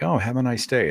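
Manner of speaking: mock-sweet, sarcastic have a nice day; sarcastic mug voice. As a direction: say it like the hidden middle finger. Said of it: "it's like".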